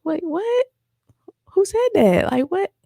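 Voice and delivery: stunned, rising protest; shocked outrage. Retold or imitated. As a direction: react like you can't believe your ears. Hearing the false claim retold.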